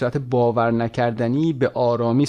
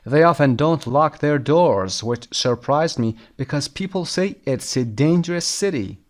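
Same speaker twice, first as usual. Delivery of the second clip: very slow, deliberate English read-aloud; measured dictation pace; slow lesson reading; 2 semitones higher, much slower than usual. Shown as a demonstration. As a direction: read it out slowly for language learners. Reads lesson text aloud.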